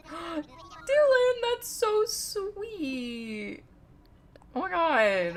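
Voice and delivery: high, gushing and drawn out; touched gasp. Real, not acted. Streamer gushing to Dylan about his kind gift, touched and excited. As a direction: gush with real delight at the gift. Thanked by a chatter named Dylan.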